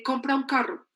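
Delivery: next life demand, briskly announced; expectation called out. Acted. Everyone expects it of us, announced as a demand. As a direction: give the order from the checklist. Expectation, then compliance ticked off.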